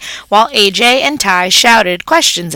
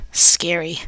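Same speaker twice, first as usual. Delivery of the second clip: a quick, breathy whisper to the listener; whispered aside; 4 semitones lower, 4 dB quieter than usual. A narrator's reading. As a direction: hush it like a secret. Hamster's aside about the show.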